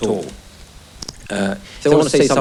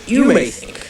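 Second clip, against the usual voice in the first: home counties Tory; slower than usual. Acted. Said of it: "the sort of voice I'm gonna be attempting to use".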